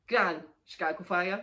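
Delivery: loud, rising nag at gran; insistent call. Retold or imitated. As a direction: pester her to watch the show, loud and rising. Granddaughter nagging gran to watch.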